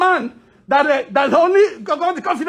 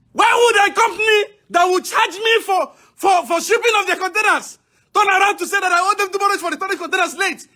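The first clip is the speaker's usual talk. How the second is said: raised angry voice; shouting. Real, not acted. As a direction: shout the complaint out. Protester shouting at shipping office.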